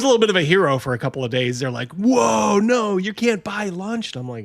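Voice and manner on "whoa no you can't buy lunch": slow, drawn-out mock refusal; mock stern staff. School staff refusing the boy lunch, slow and mock stern. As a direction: lay down the rule slowly and heavily.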